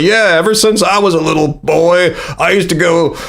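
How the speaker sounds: lightly put-on Australian accent, reminiscing; a vague attempt at an Australian accent telling a childhood memory; a hint of Australian accent as a grown man recalling camping with his dad; odd Australian accent. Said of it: "an accent of some kind".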